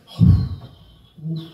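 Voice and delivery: long, breathy sigh of frustration; huffing out exasperation; exasperated sigh. Pretend. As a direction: heave two heavy sighs. Sighs at court injustice.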